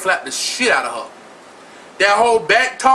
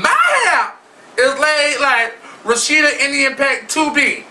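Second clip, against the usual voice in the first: high excited brag; 5 semitones higher than usual. Pretend. Boasting about laid hair.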